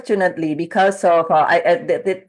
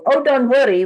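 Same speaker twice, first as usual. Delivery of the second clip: reassuring mom; 6 semitones higher, 3 dB louder than usual. Retold or imitated. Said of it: "Mom keeps saying".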